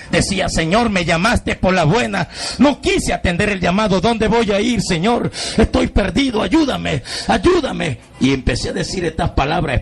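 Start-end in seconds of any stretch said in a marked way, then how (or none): 0.5-8.0 high, pleading cry to God; begging the Lord, voice lifted high; lost soul crying out to the Lord; anguished prayer. Retold or imitated. Dead man's anguished prayer to God.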